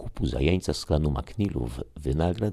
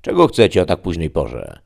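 put-on rasping old aunt; 3 semitones higher, 9 dB louder than usual. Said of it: "cierpki i chrapliwy głos ciotki".

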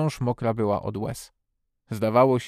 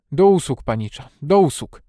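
eager obedient exclamation; dutiful servant's reply; 3 semitones higher, 8 dB louder than usual. A narrator's reading. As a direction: answer smartly, at your service. Old servant suddenly salutes young master.

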